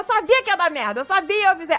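high-pitched mock I-told-you-so; hammed-up annoyed reproach; retold annoyed scolding. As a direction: imitate an exasperated partner scolding. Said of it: "Aí quando o Dave ficou puto".

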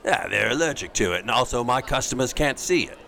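put-on Cockney accent. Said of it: "Bert from Mary Poppins".

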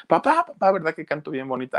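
put-on high-pitched child calling Dad; imitated small girl wanting praise; little girl. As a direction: call out like an eager little daughter. Little Lupita begging her father's praise.

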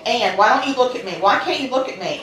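fast, loud ranting plea. Retold or imitated. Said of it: "she spoke very loudly".

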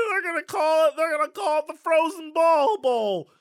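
sportscaster voice. Pretend. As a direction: sell the pun like a TV host. Mock sportscaster joke.

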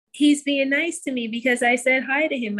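put-on high, earnest child voice; little girl voice. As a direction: explain it proudly like a kid. Daughter explaining to her mom.

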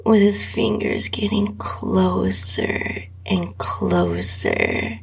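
intimate breathy whisper throughout; whispered erotic reading. A narrator's reading. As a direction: read it close to the mic, barely voiced. Erotic story read in whisper.

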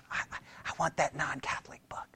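hushed, secretive whisper; very soft under-the-counter whisper; furtive whisper. Retold or imitated. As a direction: whisper it as if asking for something forbidden. Furtive request for hidden book.

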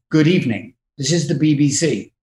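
measured mock news greeting; lightly voiced BBC newsreader. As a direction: open the evening bulletin with light formality. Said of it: "The guy says".

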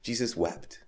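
hushed. Real, not acted. Repeated key line, hushed.

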